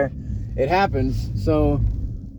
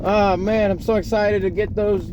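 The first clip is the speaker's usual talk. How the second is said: higher-pitched imitation of a New York accent; dad's New York accent; 4 semitones higher than usual. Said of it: "it gets stronger and stronger".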